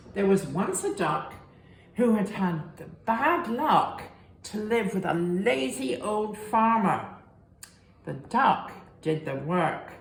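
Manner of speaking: lively storybook reading voice; reading to children. A narrator's reading. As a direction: read it to little ones with big expression. Reading picture book to children.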